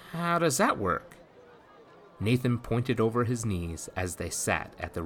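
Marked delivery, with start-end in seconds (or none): 0.1-1.2 put-on much higher, fast boyish voice; a startled lad blurting out; young boy Jacques. A narrator's reading.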